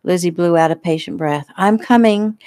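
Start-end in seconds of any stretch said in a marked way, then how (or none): 1.6-2.4 sweet call. Acted. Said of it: "she called sweetly".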